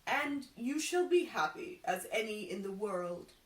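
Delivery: a hint of a solemn seer; lightly voiced prophet, grand and sure; fortune teller voice. Fortune teller flattering the carpenter, lightly voiced seer.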